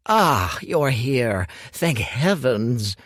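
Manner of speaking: a flustered master greets his rescuer; Hu calls out in relief as Dorian arrives; relieved old master. Acted.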